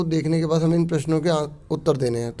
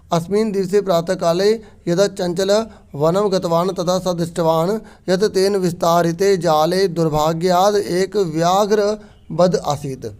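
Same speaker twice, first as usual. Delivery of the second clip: slow, deliberate reading of the text; Sanskrit recitation. Shown as a demonstration. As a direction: read each word clearly for the class. Teacher reads Sanskrit text aloud.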